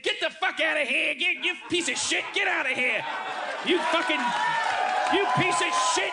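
high, angry Aussie shouting; hammed-up exasperated Australian accent. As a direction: curse them out in a mock Australian accent. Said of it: "do an Australian accent again".

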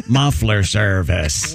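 slow, drawn-out billboard reading; William Hickey. Retold or imitated. Movie passenger reading billboards aloud, slow deadpan imitation. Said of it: "talks like this in the movie".

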